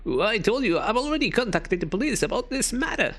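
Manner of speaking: high, nerdy dork voice; dork accent. Acted. Player voicing the officer as a high dork. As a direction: lift it into a whiny dork voice. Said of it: "like a dork kinda accent".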